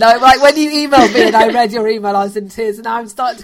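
choked up. Real, not acted. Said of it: "I'm crying inside".

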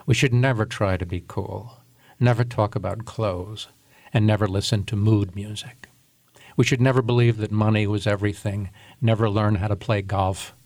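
measured radio commentary reading; old radio voice. Shown as a demonstration. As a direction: read it like a radio essayist. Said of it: "assume my old radio voice".

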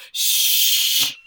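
sharp breathy shush; hush. Retold or imitated. Survivors hushing the screaming woman. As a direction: hush them urgently. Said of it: "And they all go".

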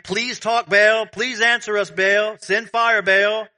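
loud, high pleading to a god; crying out. Acted. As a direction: imitate prophets begging at the top of their voices. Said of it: "prophets of Baal crying out".

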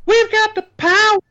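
high, loud mock hero voice; mock heroic voice. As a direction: proclaim it like a superhero. Playful echo chant.

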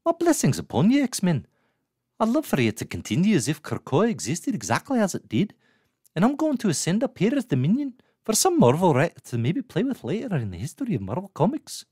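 high, swooping put-on character accent; Moira accent. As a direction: ham up the accent, pitched well above your own voice. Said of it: "why am I doing that accent?".

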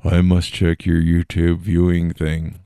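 slow put-on voice of a prying wife; mock strict wife. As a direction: play the nosy wife checking his history. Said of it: "one of those wives who's like".

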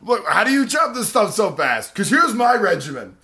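mock woodcutter voice.

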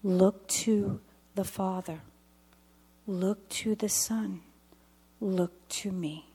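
slow, hushed, ending in a whisper; voice of the Holy Spirit. Retold or imitated. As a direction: intone it gently as a divine whisper. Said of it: "I heard this one word that sounded like this".

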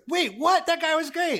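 high-pitched, incredulous protest; taken aback on someone's behalf; indignant surprise. Retold or imitated. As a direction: quote him in high disbelief. Retells actor's outraged reaction to firing.

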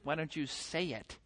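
low, hushed sarcastic thanks; sarcastic soft reply. Retold or imitated. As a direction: thank the kid dryly, under your breath. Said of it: "It's like".

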